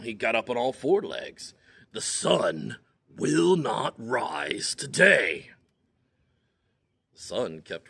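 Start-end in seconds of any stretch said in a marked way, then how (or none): 1.9-5.5 angrier command. Acted. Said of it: "A little angrier now".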